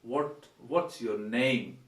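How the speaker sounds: "What's your name?" asked slowly and plainly; correct phrasing, slowly. Shown as a demonstration. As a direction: ask it simply and slowly. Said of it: "just ask him".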